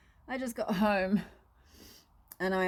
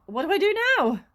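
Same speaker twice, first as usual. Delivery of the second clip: imitating herself; 7 semitones higher, 6 dB louder, faster than usual. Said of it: "It's like".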